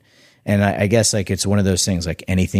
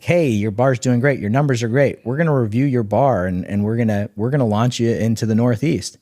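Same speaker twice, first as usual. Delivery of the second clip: upbeat buyer voice; 5 semitones higher than usual. Retold or imitated. Buyer promising a Northeast launch, cheery and higher.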